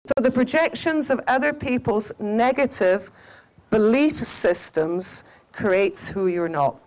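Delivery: unhurried teaching repeat; said again slowly. Shown as a demonstration. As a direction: repeat it slowly so they get it. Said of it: "Okay, I'll say it again".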